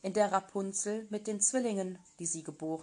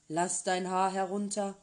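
calling out; 4 dB louder than usual. Acted. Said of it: "kam und rief".

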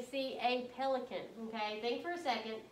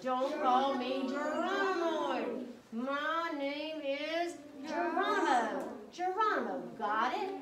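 indignant correction; 3 semitones higher, 3 dB louder, slower than usual. Acted. Geronimo correcting his own name.

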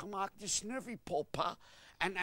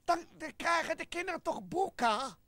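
emphatic shout; 8 semitones higher than usual. Acted. Puppet insisting the children get books, shouted.

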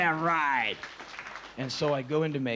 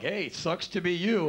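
taunting; 5 semitones higher than usual. Retold or imitated. Castmates taunting him.

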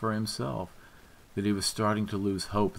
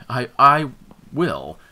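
half crying; 5 semitones higher, 10 dB louder than usual. A narrator's reading. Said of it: "half crying through that".

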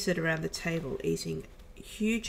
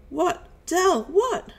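high, urgent questioning; acted alarm, pitched way up and rising louder; 12 semitones higher, 6 dB louder, slower than usual. A narrator's reading. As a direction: cry out in panic at a friend's agony. Crewmate alarmed at victim's agony.

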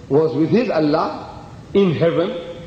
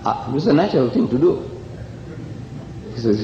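ordinary talk, nothing marked

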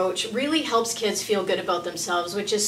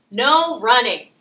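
louder, falling order; stern command; 2 semitones higher, 6 dB louder, slower than usual. Acted. Parent shouting an order at a child, stern. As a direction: bark it at the running child.

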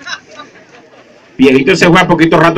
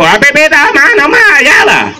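mumbling passenger; 9 semitones higher than usual. Acted. Passenger voiced in story.

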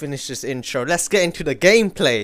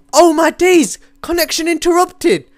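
much higher, loud outcry; exasperated shout; 12 semitones higher, 6 dB louder than usual. Real, not acted. Gamer sees connection interrupted, high exasperated shouting. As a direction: cry out in loud disbelief.

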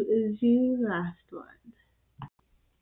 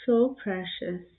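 drawn-out so precious; tender coo; 2 semitones lower, slower than usual. Real, not acted. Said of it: "repeated cooing".

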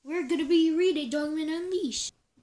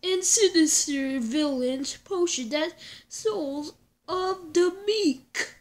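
horror trailer voice. Acted. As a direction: boom it like a movie trailer. Trailer read continues.

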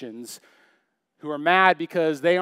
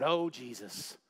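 softer, lower, casual aside; offhand exclamation; 4 semitones lower, 8 dB quieter, slower than usual. Retold or imitated. Pastor imitating people using the name lightly, offhand. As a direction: toss it off lightly. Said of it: "You say it lightly".

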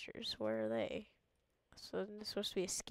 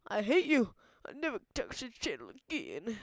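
loud, higher, hammed-up outrage; mock angry viewer; 3 semitones higher, 8 dB louder than usual. Imitating angry viewers yelling at the streamer, loud and higher. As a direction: yell it like a betrayed fan, half joking. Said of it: "you guys might yell at me, be like".

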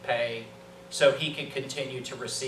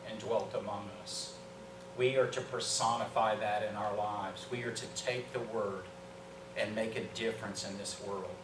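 soft, lowered pulpit voice; hushed, solemn preaching; 4 semitones lower, 9 dB quieter than usual. Real, not acted. Preacher telling the church the Word became flesh, hushed and solemn. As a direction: bring it right down and let it sink in.

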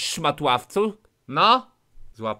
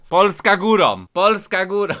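cheering; 5 semitones higher, 9 dB louder than usual. Real, not acted. Patriotic cheering.

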